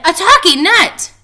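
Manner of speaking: high, loud amazed squeal; excited squeal. Acted. Littlest Rabbit squealing in amazement about the talking nut. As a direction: squeal it in wonder. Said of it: "squealed Littlest Rabbit".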